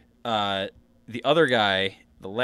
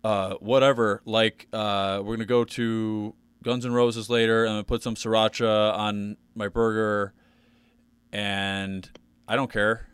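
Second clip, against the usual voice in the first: Pat impression. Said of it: "here's, like, what I think of it now".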